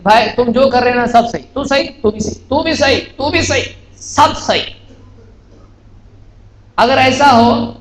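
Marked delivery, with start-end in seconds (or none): 0.0-4.7 1 mock agreeable. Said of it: "ہم یہ کہیں".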